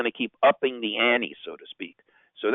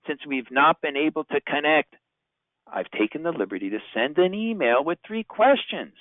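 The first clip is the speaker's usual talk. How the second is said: leaving a voicemail; 4 semitones higher than usual. Shown as a demonstration. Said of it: "my storyline of voicemail message number three".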